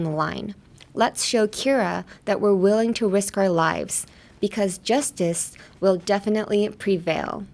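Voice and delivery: slow, measured movie-line delivery; dramatic line read again. Shown as a demonstration. Repeating the speech for practice, solemn. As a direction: say it like a solemn vow. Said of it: "One more time".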